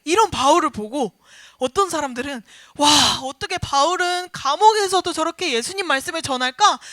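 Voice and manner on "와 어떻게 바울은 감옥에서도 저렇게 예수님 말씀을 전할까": admiring wonder. Retold or imitated. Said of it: "감탄하고 존경하고".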